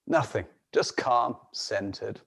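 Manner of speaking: quiet, settling storyteller tone; composed, hushed and low-key; calm. Acted. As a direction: let it drop softly into stillness. Showing the lions' unruffled calm.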